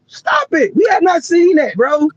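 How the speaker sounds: high-pitched, exasperated objection; exasperated protest. Real, not acted. Arguing with co-host over player comparisons, exasperated protest. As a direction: protest with pitch shooting right up.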